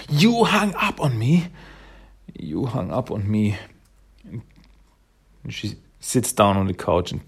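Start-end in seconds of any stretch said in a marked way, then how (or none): 0.1-1.5 high, rising cry of disbelief; tearful outburst. Retold or imitated. Mona after her parents hang up, tearfully outraged. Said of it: "She just starts to cry". 2.4-3.6 the hurt sinking back to normal pitch; crying, subdued. Retold or imitated. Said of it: "is just crying".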